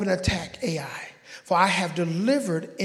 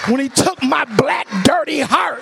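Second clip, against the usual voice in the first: rising into loud testimony; preacher's yell; 3 semitones higher, 4 dB louder than usual. Real, not acted. Preacher telling church Jesus beats a touchdown, building to a yell. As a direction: punch it out, building to a shout. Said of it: "I'm still yelling".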